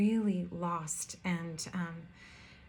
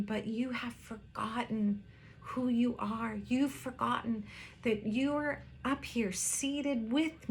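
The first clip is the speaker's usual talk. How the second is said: gentle, loving voice of a heavenly father, lightly voiced; mildly tender, fatherly reassurance; 2 semitones higher than usual. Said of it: "in his tender, loving father voice".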